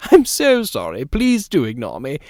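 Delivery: a hint of a chatty, insistent lady of the house; genteel hostess talking over her guests; lightly voiced society lady. A narrator's reading. Narrator voices Mrs Fortune.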